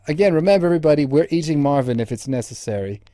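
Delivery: loud rallying call to the crew; loud mock announcement. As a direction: announce it loudly to everybody.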